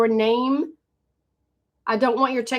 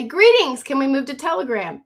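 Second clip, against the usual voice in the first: spammer voice; 2 semitones higher, 4 dB louder than usual. Retold or imitated. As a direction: put on a fake friendly scammer voice. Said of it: "That's a spammer".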